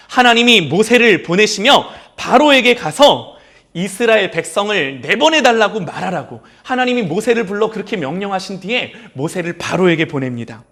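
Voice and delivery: normal talking voice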